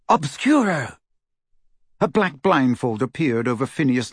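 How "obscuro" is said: crying out. A narrator's reading. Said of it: "Hermione cried".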